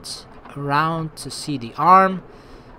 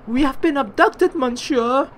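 alarmed servant; 10 semitones higher than usual. Acted. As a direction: blurt it out to your master.

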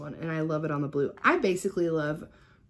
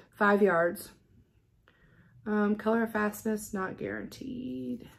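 ordinary talk, nothing marked

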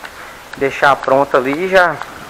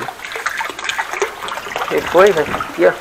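soft soothing; 3 semitones higher, 5 dB quieter, much slower than usual. Real, not acted. Soothing the dog softly.

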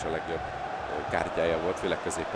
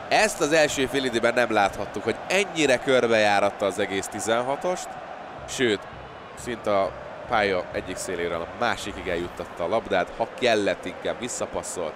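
excited sports commentary; 3 semitones higher, 5 dB louder than usual. Real, not acted. Excited analysis right after the goal.

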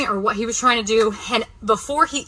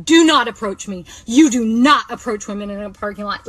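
firm raised warning; retold yell; 3 dB louder than usual. Woman repeating her warning to the man, mildly raised yell. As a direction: lecture him loudly. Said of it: "like, yelling it".

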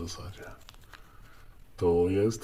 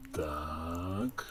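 whisper; 3 semitones lower, 9 dB quieter than usual. Real, not acted. Whispered aside while unwrapping.

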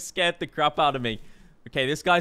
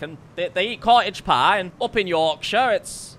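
put-on Yorkshire accent. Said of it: "my terrible Yorkshire accent".

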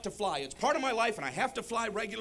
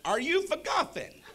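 slow, higher "Are you for golfing"; goober translated; 6 semitones higher, slower than usual. Acted. Traveler decoding the driver's phrase, slow and deliberate. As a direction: draw out the decoded phrase word by word. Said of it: "English to Goober dictionary".

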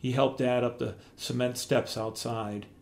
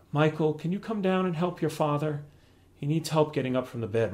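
calling out; 6 semitones higher than usual. Acted. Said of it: "my mom called down to me".

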